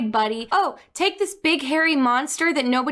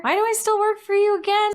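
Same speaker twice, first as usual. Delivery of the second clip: higher, faster, exasperated; exasperated outburst; 8 semitones higher, faster than usual. Pretend. Pretend Kylo Ren asking Snoke, higher and baffled. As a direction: blurt it out, baffled.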